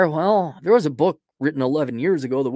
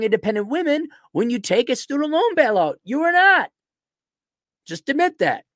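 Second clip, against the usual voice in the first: angry rant; 4 semitones higher than usual. Real, not acted.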